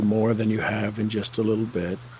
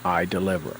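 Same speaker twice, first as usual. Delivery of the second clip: matter of fact; 3 semitones lower than usual. Shown as a demonstration. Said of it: "say it kinda in that tone".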